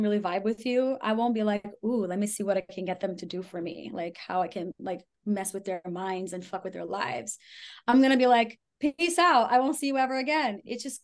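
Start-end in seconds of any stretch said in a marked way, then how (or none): 1.8-7.4 softer, sly plotting; scheming manipulator. Retold or imitated. Imagined manipulator's scheming thoughts. 8.8-10.6 much higher, fast and carefree; breezy dismissal. Retold or imitated. Breezy dismissal of bad match.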